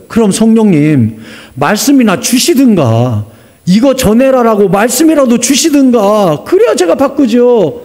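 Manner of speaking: slow, whiny protest rising in pitch; exasperated plea. Acted. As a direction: complain back, stretching the endings. Pastor complains back to Holy Spirit.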